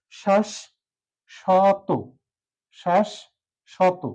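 শ্বাস, long pause, শত: "shash... shoto"; correct syllable split. Shown as a demonstration. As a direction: model শ্বাস and শত as separate, clear beats. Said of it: "এটি হচ্ছে সঠিক উচ্চারণ". (থেমে থেমে "শাশ্... শতো")

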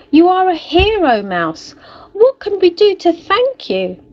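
high, loud, happy animal chorus; grateful cheer. A narrator's reading. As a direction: cheer the little hero. Freed animals thank Mouse.

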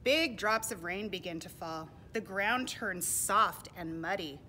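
clear, emphatic read-aloud; projected picture-book reading; storybook narration. A narrator's reading. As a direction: tell it to little listeners with big emphasis. Reads storybook to children.

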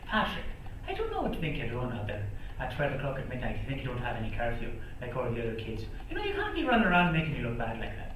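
his mother's voice. Retold or imitated. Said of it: "she talks like this".

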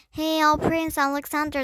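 salute the prince as a group would; hailing in unison. A narrator's reading. Men greet the young prince together, hailing him. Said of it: "the man said in unison".

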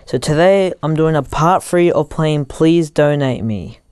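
muffled headphone-mic sound; headphones used as mic. Real, not acted. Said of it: "I'm using headphones as a mic".

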